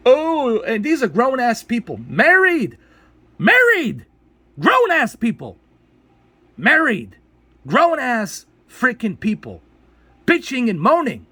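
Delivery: high, loud exasperated outbursts; outraged rant. Real, not acted. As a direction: hammer each phrase in indignant disbelief. Angry rant at complainers.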